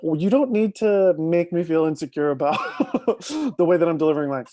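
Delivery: half-laughing comeback; laughing retort. Retold or imitated. Snapping back at a teasing star, laughing. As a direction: laugh through a defensive reply. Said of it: "I was like".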